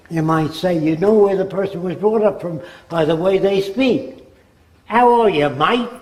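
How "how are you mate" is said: put-on Australian accent. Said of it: "that guy comes from Australia".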